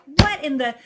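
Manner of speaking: high, outraged yell at the TV; retold yelling. Viewer ranting at the TV news, mock yelling. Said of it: "like, yelling at the T V".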